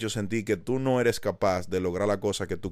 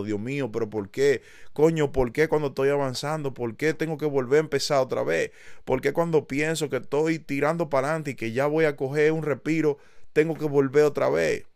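self-pity; 5 semitones higher, 3 dB louder than usual. Pretend. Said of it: "en mi cama llorando y pensando".

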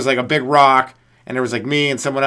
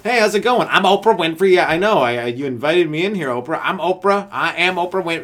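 higher, louder hammed-up talk-show host; mock Oprah; 3 semitones higher, 4 dB louder than usual. Comic doing Oprah, insisting on her own name. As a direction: gush about being Oprah. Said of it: "I imagine she'd say that a lot".

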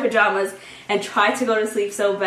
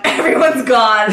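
laughing through it; 7 dB louder, slower than usual. Retold or imitated. High storyteller voicing stoned panic.

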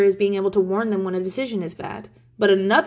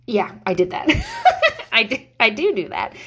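laughing at herself; 4 dB louder than usual. Real, not acted. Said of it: "laughs at herself".

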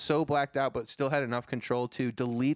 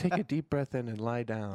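calm AI voice. Retold or imitated. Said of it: "with, like, a calm A I voice".

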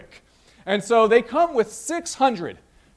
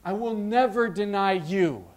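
emphatic vow; 3 semitones higher than usual. Retold or imitated. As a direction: imitate disciples insisting with full conviction. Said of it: "They emphatically say".

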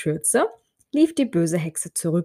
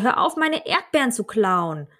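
angry shout; 5 semitones higher than usual. Acted. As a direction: call out in anger across the garden. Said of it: "Sie guckte böse und rief".

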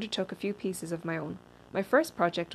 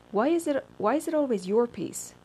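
higher, louder acted complaint; indignant protest; 6 semitones higher, 4 dB louder than usual. A narrator's reading. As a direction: challenge him like an aggrieved group member. Group falls apart over his next piece.

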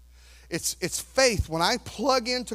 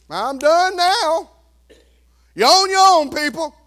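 hammed-up dismissal; God abandoning; 7 semitones higher, 9 dB louder than usual. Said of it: "this far and say".

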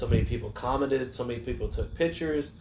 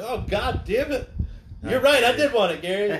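hammed-up defeated wail; 11 semitones higher, 4 dB louder than usual. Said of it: "I'm like".

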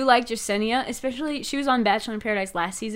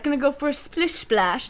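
attempted Australian accent that comes out British, pitched up; 4 semitones higher than usual. Retelling the swimmer's line to a co-host, mock British accent. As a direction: imitate an Australian guy, landing on British. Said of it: "That was actually British".

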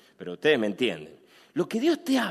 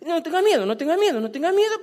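higher, louder singsong reassurance; mock-cheerful repeated comfort, pitched up and louder; 10 semitones higher, 4 dB louder, faster than usual. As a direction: parrot the comfort in a raised mocking voice.

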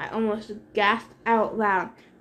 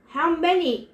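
louder, forceful demand; 6 semitones higher, 4 dB louder than usual. A narrator's reading. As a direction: insist on an answer. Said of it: "the general demanded".

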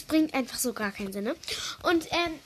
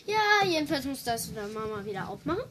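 speaking up, a bit faster; to someone hard of hearing; faster than usual. Real, not acted. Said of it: "Ja, du musst lauter reden".

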